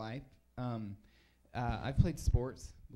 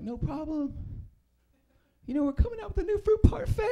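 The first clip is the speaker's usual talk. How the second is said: much higher and louder, salesy; loud perky brand voice; 13 semitones higher, 6 dB louder than usual. Retold or imitated. McDonald's pushing a parfait, in a much higher, louder salesy voice. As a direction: hit the new product hard. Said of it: "McDonald's was like".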